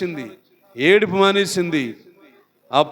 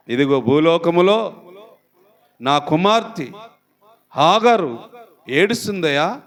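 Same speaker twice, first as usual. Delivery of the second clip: God speaking; 3 semitones higher than usual. Acted. Preacher voicing God, low.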